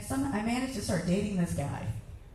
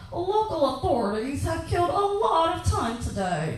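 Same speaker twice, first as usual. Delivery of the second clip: higher, formal newsreader read; lightly voiced TV anchor; news anchor; 6 semitones higher, 3 dB louder than usual. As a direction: deliver it like the evening news. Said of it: "hear the anchor say".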